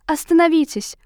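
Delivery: loud commanding cry; booming shout. A narrator's reading. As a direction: thunder it out again. Savage repeats his cry.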